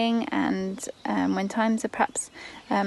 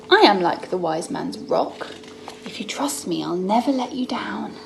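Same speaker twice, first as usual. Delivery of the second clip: gentle Jesus voice. Acted. Mum voicing Jesus to son, tender reassurance. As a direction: promise it tenderly. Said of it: "Jesus says".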